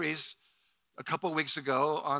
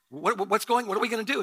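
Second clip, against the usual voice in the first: higher, louder flustered stammer; mild retold panic; 6 semitones higher, 4 dB louder, faster than usual. New pastor asks the wife for help, mock panic. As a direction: stumble over the question in mock alarm. Acting out his panic at choking.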